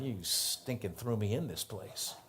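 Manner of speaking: a bitter grumble to himself; resentful thought. Retold or imitated.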